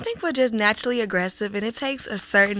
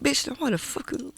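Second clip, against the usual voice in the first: scolding at home; 3 semitones higher, 8 dB quieter than usual. Retold or imitated. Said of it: "But when we get home".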